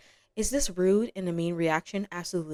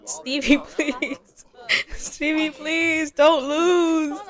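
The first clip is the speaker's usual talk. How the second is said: desperate pleading; 8 semitones higher, 5 dB louder, much slower than usual. Real, not acted. Begging her sim not to lose.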